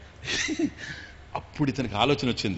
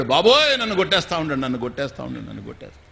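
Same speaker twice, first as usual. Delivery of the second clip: fake cry for help; 4 dB louder, faster than usual. Wife fakes cries of being beaten.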